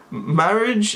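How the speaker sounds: flat monotone friend; deadpan monotone. Retold or imitated. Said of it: "speaks in a very monotone voice".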